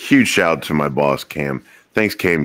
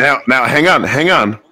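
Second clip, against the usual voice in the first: louder, higher hold-it-right-there; mock protest; 7 semitones higher, 4 dB louder than usual. Real, not acted. Husband protesting to listeners, loud mock protest. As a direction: raise a hand and stop everyone. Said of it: "can feel my pain".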